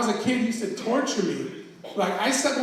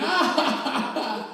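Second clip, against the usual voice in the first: higher mock cackle; imitated sister's laughing; 5 semitones higher than usual. Sister laughing at the brother she just scared, mock cackle. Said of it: "My sister started laughing".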